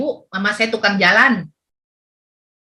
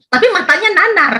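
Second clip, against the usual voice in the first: emphatic telling; 10 semitones higher, 4 dB louder than usual. Real, not acted. Vivid retelling of blank stare.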